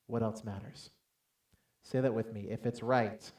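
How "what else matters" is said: tag quiet reply. Retold or imitated. Wife's quiet reply retold.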